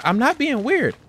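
high-pitched mock protest; high, mock-offended comeback; indignant denial. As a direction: imitate a defensive retort, pitched high. Retold argument, her indignant denial.

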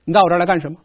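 casual, offhand teasing question; light joking tone. Shown as a demonstration. Chu envoy teases Duke Huan of Qi, lightly joking. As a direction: brush it off lightly, half in jest. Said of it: "轻描淡写、开玩笑的说".

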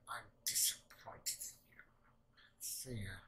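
slow, breathy mock scolding mom; a hint of a disappointed mother, slow and hushed. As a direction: drag it out like a let-down parent. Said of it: "that's your mom's like".

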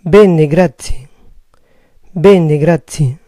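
Bene, grazie said slowly, stress on BE-ne; Italian bene grazie, slow. Shown as a demonstration. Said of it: "Bien, gracias".

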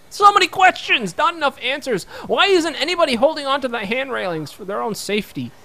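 high, loud, mock-exasperated; playful outcry. Real, not acted. Gamer ranting at odd game details, playful outcry. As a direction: throw up your hands at the absurdity.

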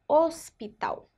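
HOSPITAL with a closed first O, S sounded. Shown as a demonstration. Teacher shows pupils how S closes the sound, closed O. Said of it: "o som fecha".

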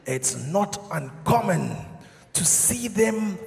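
slow, low, hushed wildlife commentary; nature documentary narrator. Pretend. Documentary narrator describing the Amanzimtoti migration, slow and hushed. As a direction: narrate like a National Geographic film. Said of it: "there's even commentary in the background".

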